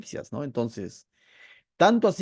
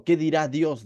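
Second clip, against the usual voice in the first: distant reference. Retold or imitated. People speaking of God as an external judge, detached. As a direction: ask it as of an outside judge. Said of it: "Es muy distinto de decir".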